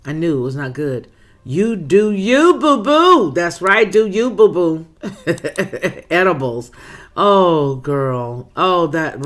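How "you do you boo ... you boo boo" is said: drawn-out playful sass, up high on boo-boo; sassy slow you do you, rising to a high boo-boo; sassy affectionate. Real, not acted. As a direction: tease the viewer fondly, stretching it slowly. Playful sign-off to a commenter.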